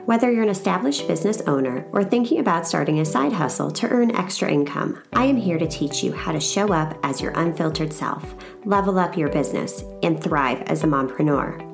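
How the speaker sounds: upbeat scripted show opener; podcast intro read. Real, not acted. Host welcomes mompreneurs to her show, scripted intro read.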